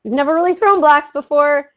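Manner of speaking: a parent marching over to lecture; mock overbearing parent. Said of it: "just be like".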